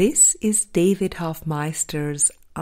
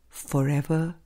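whisper; 4 dB quieter than usual. Acted. Closing words of spiritual answer.

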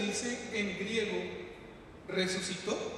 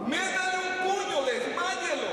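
barked higher and louder; mock shout; 9 semitones higher, 4 dB louder than usual. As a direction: shout the order at the lifeguard. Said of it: "Saben qué le dicen al salvavidas". (grito fingido, más alto y fuerte)

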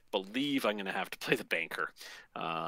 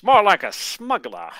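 smuggler voice; 10 semitones higher, 12 dB louder, slower than usual. Pretend. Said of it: "I don't know if that's an auctioneer voice".

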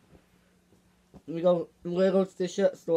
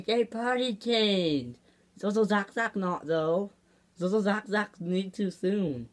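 put-on toddler talk; 3 semitones higher than usual. Toddler answering about potty training, baby talk. Toddler character in puppet vlog.

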